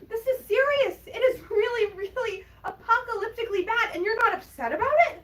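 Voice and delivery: high, urgent disbelief; indignant scolding. Acted. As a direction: insist on it, appalled at their indifference. Scolds partner for not caring.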